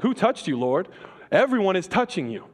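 a lighter take on Peter's protest. Retold or imitated. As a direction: toss it off as a mild objection. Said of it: "Peter's like".

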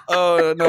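a pained little moan, half joking; light pained moan, a touch pleasurable; mild mock moan. Shown as a demonstration. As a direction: moan it as if slightly in pain. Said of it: "moan a little bit".

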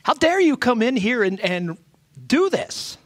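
a touch of a hammed-up angry merchant; mock indignant outburst. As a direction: rise up in offended anger, peaking on do this. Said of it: "and sneered".

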